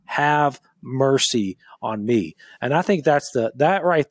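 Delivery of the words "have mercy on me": slow humble plea. Shown as a demonstration. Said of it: "then this is what you say".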